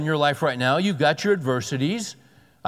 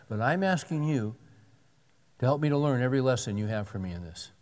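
humble prayer; 3 semitones lower, 4 dB quieter, faster than usual. Shown as a demonstration. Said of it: "here's the approach to take is".

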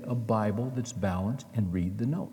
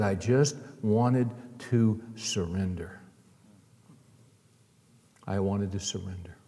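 tender confession; 4 semitones lower than usual. Retold or imitated. Convert describing his surrender moment.

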